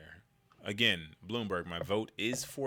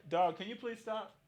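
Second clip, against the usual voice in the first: high soft plea to the dog; pleading with dog; 10 semitones higher, 4 dB quieter than usual. Real, not acted. Speaker to his dog, high soft plea.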